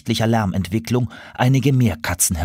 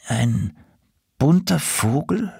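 hesitant, rising high on BUNTER VOGEL; uneasy question; 5 semitones higher, slower than usual. A narrator's reading. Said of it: "fragte Konrad unbehaglich".

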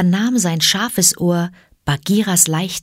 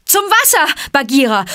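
high, loud shout across the fight; loud call; 9 semitones higher than usual. A narrator's reading. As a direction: yell the way to the water. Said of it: "rief er mit lauter Stimme".

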